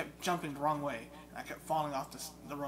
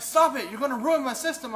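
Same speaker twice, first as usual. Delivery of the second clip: imitating upset friend; 11 semitones higher, 14 dB louder than usual. Friend's protest retold.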